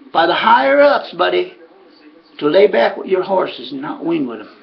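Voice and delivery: insistent imitated southerner, rising in pitch; lightly put-on southern voice; Ray's southern accent. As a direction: press the warning home in a southern accent. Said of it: "talk with that southern accent".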